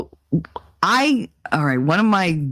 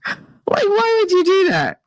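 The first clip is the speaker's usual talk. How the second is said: can't believe it; disbelief; 12 semitones higher than usual. Real, not acted.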